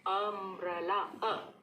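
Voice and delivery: अम्ब्रेला starting with a short अ, slowly; short U sound. Shown as a demonstration. Teacher models अ in अम्ब्रेला slowly. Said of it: "अ, अम्ब्रेला".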